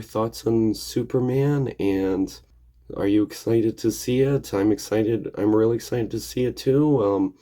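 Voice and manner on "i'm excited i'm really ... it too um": slightly gravelly, hoarse from a cold. Real, not acted. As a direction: talk through a gravelly, sick throat. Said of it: "my voice sounds a bit gravelly".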